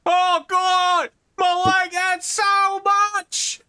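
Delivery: wounded guard. Acted.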